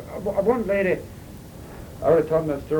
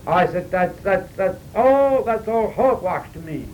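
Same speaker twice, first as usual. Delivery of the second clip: louder, slow, heated retort; retold angry retort; 4 semitones higher, 4 dB louder, slower than usual. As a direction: lose the temper, slowly. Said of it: "when that happens ... getting hot".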